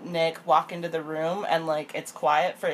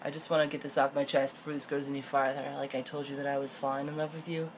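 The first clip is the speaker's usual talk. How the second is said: mock earnest confession; 3 semitones lower, 9 dB quieter than usual. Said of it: "What he says is".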